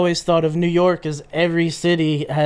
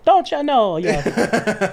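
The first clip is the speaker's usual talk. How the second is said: put-on Wisconsin accent; 4 semitones higher, much slower than usual. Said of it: "like, Wisconsin-y".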